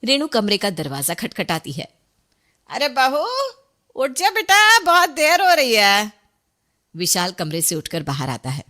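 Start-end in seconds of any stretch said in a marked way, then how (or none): 2.7-6.1 higher, louder calling out; calling through the door. A narrator's reading. Mother-in-law calls the sleeping bride through the door, loud call.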